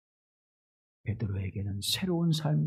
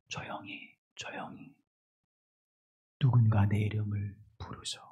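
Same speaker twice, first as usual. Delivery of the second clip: 조용히 whispered very softly; whispered hush; 7 semitones lower, 6 dB quieter than usual. Shown as a demonstration. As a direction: breathe the words like a hush. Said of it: "이런 내용". (속삭이듯 아주 조용히)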